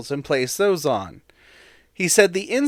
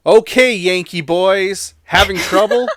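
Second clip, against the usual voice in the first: shouted quote; 3 semitones higher, 7 dB louder than usual. Retold or imitated. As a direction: raise the voice as if hailing strangers. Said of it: "And he shouted, I quote".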